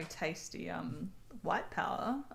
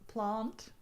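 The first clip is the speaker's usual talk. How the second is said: posh Australian accent; 4 semitones higher than usual. Shown as a demonstration. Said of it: "I'm like the posh Australian".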